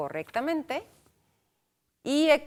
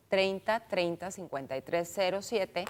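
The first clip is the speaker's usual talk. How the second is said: spaced-out digits, easy to jot down; slow repeat; 2 semitones lower than usual. Shown as a demonstration. Host repeats the phone number for listeners, slowly. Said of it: "se lo repito despacito".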